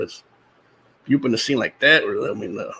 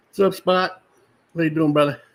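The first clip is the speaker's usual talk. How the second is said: cheerful greeting; 6 semitones higher, 4 dB louder than usual. Real, not acted. Greeting pet lurking in background.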